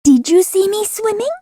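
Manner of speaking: very high, eager little voice; excited squeak. A narrator's reading. Roo excitedly asking everyone, squeaky. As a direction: bounce with pride. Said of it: "squeaked Roo excitedly".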